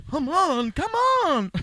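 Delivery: high-pitched mock panic; panicked urging. Woman at payphone as retold by host, mock-frantic urging. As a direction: urge it on frantically, hammed-up. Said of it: "does the classic".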